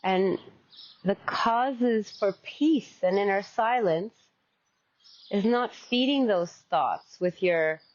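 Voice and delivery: unhurried meditation teacher with long pauses; guided meditation. Acted. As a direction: guide them gently into stillness, phrase by phrase.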